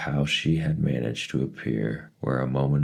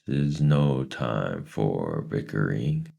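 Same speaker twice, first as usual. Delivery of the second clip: sharp strange voice; 3 semitones higher, much slower than usual. Acted. Mrs Which stopping the bickering, sharp and strange. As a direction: cut them off sharply. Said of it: "a sharp, strange voice".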